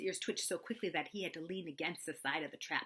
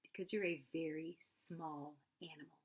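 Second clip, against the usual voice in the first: encouraging; 7 dB quieter than usual. Acted. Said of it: "said Pooh encouragingly".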